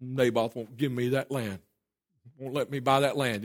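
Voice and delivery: low, soft, sulking complaint; sulky pout. Acted. Pouting king complains to his wife about Naboth, sulky pout. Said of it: "sees him pout and says".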